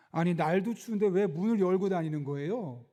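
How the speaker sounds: mildly annoyed retold complaint; a touch of accusing irritation. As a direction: imitate an irritated restaurant owner scolding. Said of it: "짜증 섞인 목소리로 비난하듯이".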